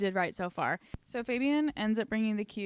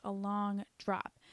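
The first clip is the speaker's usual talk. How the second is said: slow ominous; 4 dB quieter, slower than usual. Shown as a demonstration. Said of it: "It's a long drop".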